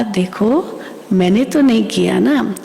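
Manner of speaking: mildly affectionate reproach, opening gently; lightly voiced tender protest; loving, retold. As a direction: imitate a mother figure gently questioning someone's anger. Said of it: "इतना प्यार से मम्मा ने कहा".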